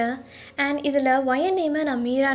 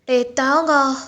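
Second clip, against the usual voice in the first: slightly raised scolding voice; concerned friend; 4 dB louder than usual. Acted. Friend telling drunk Taehyung he has had enough, mildly scolding. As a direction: try to stop him drinking, exasperated.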